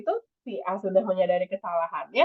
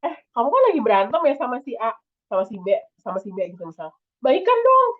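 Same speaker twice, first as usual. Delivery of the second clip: blunt pushing; 2 semitones higher, faster than usual. Shown as a demonstration. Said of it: "langsung bilang".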